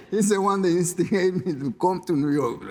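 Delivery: laughs through the words; laughing. Real, not acted. Jockey answering his friend's tease, laughing. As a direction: laugh it off, voice up high.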